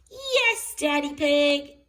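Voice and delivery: high, loud happy answer; eager chorus reply. A narrator's reading. The family answer Daddy Pig, high loud cheer. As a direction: cheer back all together. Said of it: "everyone answered back".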